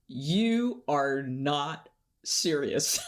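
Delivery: mildly exasperated imitation, slow and deliberate. Professor shaking a student who won't take things seriously, mildly exasperated. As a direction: retell a scolding, each word slowly spaced. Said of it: "he is just so exasperated with me".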